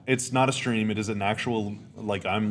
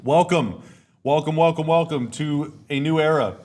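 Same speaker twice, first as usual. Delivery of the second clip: hype announcer; 4 semitones higher, 4 dB louder than usual. Acted. Hype intro, repeated welcomes.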